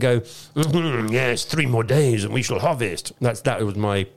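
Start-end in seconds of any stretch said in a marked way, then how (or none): 0.2-3.1 mock French accent, lightly done; a hint of a French winemaker. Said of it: "my, um, French accent in case you're wondering".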